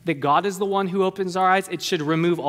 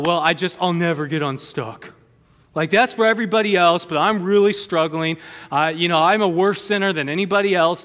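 mock self-pity. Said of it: "those of you that would say".

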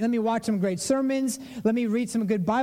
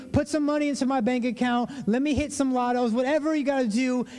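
higher-pitched, pushy begging to God; demanding plea; 4 semitones higher than usual. Acted. Believer asking God to provide, insistent plea. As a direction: press God for a handout, pitched up. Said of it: "maybe for you, you expect God to provide for you. And you're like".

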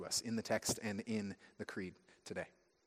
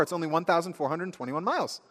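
eager, higher, with a falling "miles"; proud announcement; 6 semitones higher, 4 dB louder than usual. Acted. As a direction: announce "twenty-one miles" as good news. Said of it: "And they blurt out".

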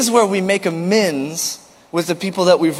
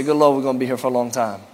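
mock groan; 5 semitones lower, faster than usual. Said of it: "Somebody say".

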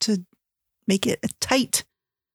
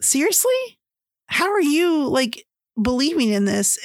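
mock disbelief, pitched up; incredulous; 5 semitones higher than usual. Retelling a brother's shocked reaction, incredulous. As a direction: act out a stunned reaction.

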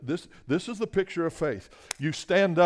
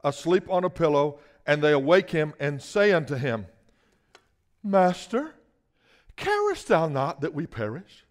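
brisk verse read aloud; reading the verse to the congregation; scripture reading. Shown as a demonstration. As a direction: read the verse straight from the page. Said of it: "look at what they said in verse thirty-eight".

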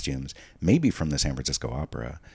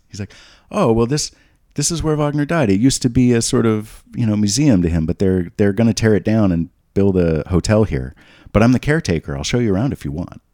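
put-on high, loud, eager old caretaker; old Venetian caretaker greeting visitors, high and chirpy; little old Italian man; 7 semitones higher, 7 dB louder than usual. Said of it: "little old Italian man is like".

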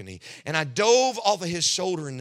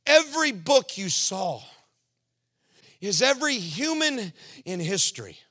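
raised, booming voice of God; God's words proclaimed loud; voicing God loudly; 4 semitones higher, 3 dB louder than usual. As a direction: proclaim it from heaven. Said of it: "He said".

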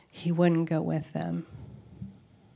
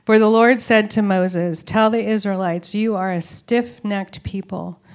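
louder, stern reading of God's words; stern scripture proclamation; 6 dB louder than usual. Acted. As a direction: proclaim the Lord's rebuke.

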